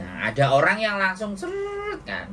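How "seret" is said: imitated gushing tears. Imitates tears suddenly pouring out.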